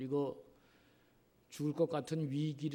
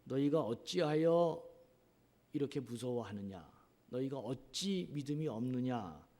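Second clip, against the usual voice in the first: rebuking. Retold or imitated. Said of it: "이렇게 꾸짖고 있습니다".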